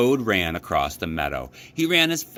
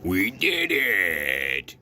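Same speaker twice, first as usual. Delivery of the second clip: joyful cry; much slower than usual. A narrator's reading. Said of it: "cried Toad".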